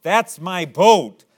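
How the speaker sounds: put-on high, loud, excited child's voice; excited boy. Little boy to shopkeeper, spotting his lost boat, excited shout. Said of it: "He was all excited".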